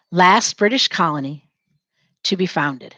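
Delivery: dictation pace. Shown as a demonstration. Teacher dictating to students as they write, phrase by phrase. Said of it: "Say it as you're writing it down".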